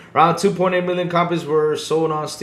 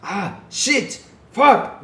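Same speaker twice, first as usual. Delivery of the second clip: higher, hammed-up German cursing; mock German accent; 9 semitones higher, 4 dB louder, much slower than usual. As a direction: play a friend swearing in a German accent. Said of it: "in his German accent".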